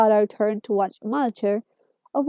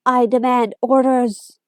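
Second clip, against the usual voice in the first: Dalek voice; 2 semitones higher, 3 dB louder, slower than usual. Acted. Dalek demanding orders.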